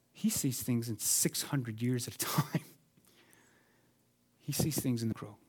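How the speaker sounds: breathy hushed whisper of awe. Acted. Preacher to congregation about God's view, whispered in awe. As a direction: let the words fall to a reverent whisper.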